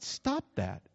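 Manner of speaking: low, soft deadpan stop that; mock scolding. Pastor telling Ed in the car to quit yawning, low deadpan. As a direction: hush a yawning friend, low. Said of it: "I said".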